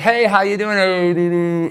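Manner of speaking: covered, hand-over-mouth tone. Demonstrating how the tones close up when speaking: muffled, as if hand over mouth. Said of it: "as if you're putting your hand over your mouth when you're speaking".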